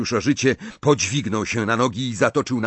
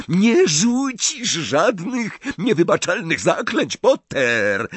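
high, slow, carrying call; shouting over noise; 7 semitones higher, slower than usual. A narrator's reading. Snape taunting Potter over the flames, shouting. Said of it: "zawołał, przekrzykując buzowanie płomieni".

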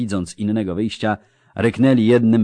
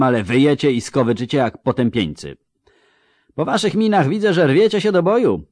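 loud, mocking commander addressing his troops; drwiący wojewoda; 6 semitones higher, 6 dB louder than usual. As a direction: sneer at the pikemen like a scornful noble officer. Voivode addresses pikemen. (szyderczy wojewoda przemawia głośno do pikinierów)

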